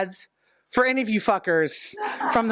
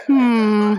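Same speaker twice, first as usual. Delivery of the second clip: boomer hmm; 3 semitones lower, 6 dB louder than usual. Retold or imitated. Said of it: "that's my boomer side that came out".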